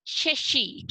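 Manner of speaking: "शशि" with both श as sh, tongue to palate; "शशि" said as a careful model word; palatal श. Shown as a demonstration. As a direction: demonstrate the sh sounds in "शशि". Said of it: "जीभ को ऊपर की तरफ touch".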